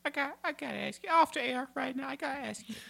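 low, hushed, fast confidential aside; gruff overprotective dad. Acted. Dad corners daughter's boyfriend.

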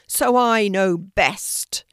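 loud, very slow, stretched roar. A narrator's reading. Lion telling animals he knows best, roared. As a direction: boom it out, drawing each word. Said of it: "he roared".

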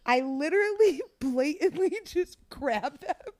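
high, laughter-choked retelling; laughing through words. Real, not acted. Telling friends about the clumsy theft, cracking up. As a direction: barely get it out for laughing.

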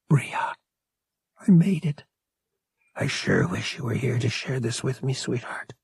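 hushed and tender, fading away at the end; tender whisper to Bria. A narrator's reading. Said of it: "and whispered".

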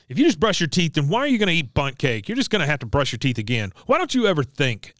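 fast, high, exasperated rant; annoyed scolding. Retold or imitated. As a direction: snap at him, fed up. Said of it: "she is fed up".

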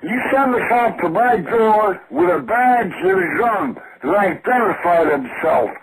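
loud threatening rant; furious shout. Real, not acted. Caller threatening police again.

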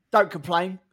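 put-on London accent; short Cockney instruction; Toto, London accent. Team boss warning Claire, put-on London accent. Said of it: "change his accent from Austrian".

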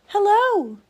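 loud high echoing hello; calling out. Acted. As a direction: call back like an echo. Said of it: "said the voice from across the pond".

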